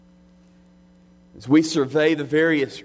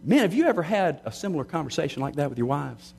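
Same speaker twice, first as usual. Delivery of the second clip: usual speaking voice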